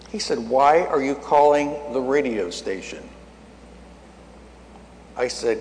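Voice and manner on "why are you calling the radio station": slow, measured questioning, lightly acted; voice of God. God asks the preacher about his call, lightly acted and slow. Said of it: "God spoke to me and said".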